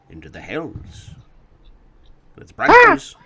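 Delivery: grandpa, bursting loud on branches; grandfather voice. Acted. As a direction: build to a grand cry. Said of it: "he says".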